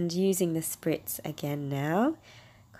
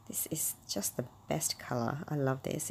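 hushed delight; 6 dB quieter than usual. Real, not acted. Admiring a favourite paste.

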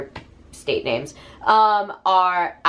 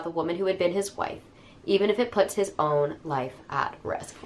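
measured, softly falling storytelling read; book blurb narration; 3 dB quieter than usual. Acted. Reading a grief mystery's back cover to viewers, measured narration. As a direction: read it like a mystery audiobook, phrases trailing down.

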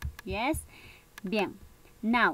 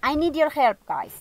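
calling out; 5 semitones higher, 8 dB louder than usual. Real, not acted. Teacher calls class for help.

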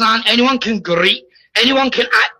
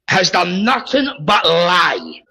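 upset; 4 semitones lower, slower than usual. Real, not acted. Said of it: "Did you not hear how upset Easy is?".

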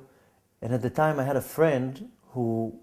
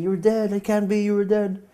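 retold screaming; 8 semitones higher than usual. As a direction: imitate her shrieking in disbelief. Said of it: "she was screaming".

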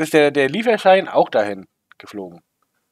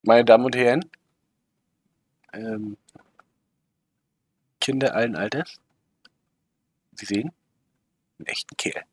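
ringmaster. Acted. Commentator announces like circus ringmaster.

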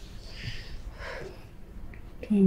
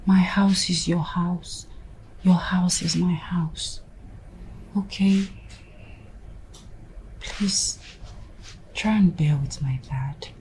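soft, slow hushed comfort; whispered reassurance; 4 dB quieter than usual. Acted. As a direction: soothe him in a near-whisper. Wife reassuring husband in whisper.

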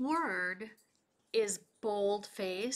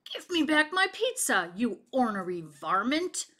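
louder angry demand; yelling; 2 semitones higher, 3 dB louder than usual. Acted. Pizza eater yelling after the thief, louder. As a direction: shout to get the pizza back. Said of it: "yelled Starvin' Marvin".

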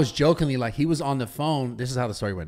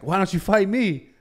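slow, smiling mock challenge; joking taunt; 4 semitones higher than usual. Taunting a friend on camera, smiling slow taunt. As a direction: tease him with a grin, drawn out. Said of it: "I'm jokingly, like, smile on my face".

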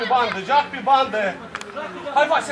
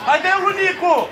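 calling out instructions; 3 semitones higher than usual. Real, not acted. Coach directing a pass to Nicu and Vasile, calling out. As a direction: call it out across the pitch.

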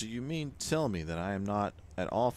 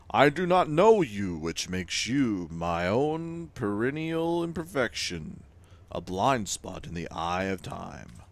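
grand, louder timeless Weaver; 5 dB louder, slower than usual. Acted. Game Weaver laments to the player, grand and louder. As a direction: speak as an ancient weaver of time.

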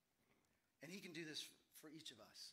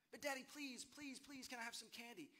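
put-on high, whiny kid begging please; a five-year-old who won't give up; higher childish plea that softens; pleading little boy; 5 semitones higher than usual.

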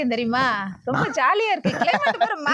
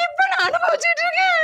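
higher, sobbing lament; crying; 6 semitones higher than usual. Acted. Married woman regretting talking to him, crying. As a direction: weep over her own mistake. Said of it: "அழுவாதடி".

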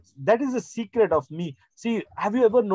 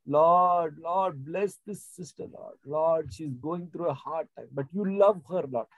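soft prayer. Shown as a demonstration. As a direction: pray tenderly, calling on the Lord. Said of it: "have you ever noticed the way I pray?".

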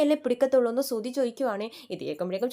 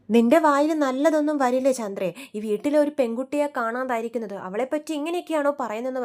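a louder voice telling off his wife; retold angry scolding, voice raised; heated rebuke; 2 semitones higher, 5 dB louder than usual. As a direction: snap at her for speaking ill of the missing girl. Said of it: "Raveendran ചൂടാകുമ്പോഴേക്കും".

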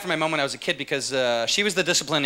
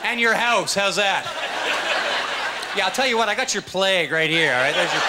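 a hint of a crude modern tough guy; blunt, casual street retort; 3 semitones higher, slower than usual. Guy from today answers the Shakespearean, crude and blunt. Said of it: "here's the guy from today".

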